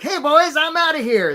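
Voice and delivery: high, loud cartoon crab calling out; a cocky crab waving goodbye to the boys; a crab bailing on the gang, high and loud. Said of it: "that's my crab voice".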